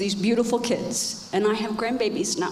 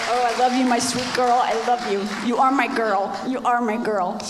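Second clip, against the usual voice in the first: tender; 4 dB louder than usual. Real, not acted. Speaking to daughter in audience.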